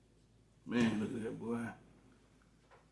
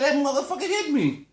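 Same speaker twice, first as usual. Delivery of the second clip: high, loud hammed-up wailing; mock crying complaint; 12 semitones higher, 4 dB louder than usual. Man as his newborn self after the slap, mock crying. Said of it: "And I started crying".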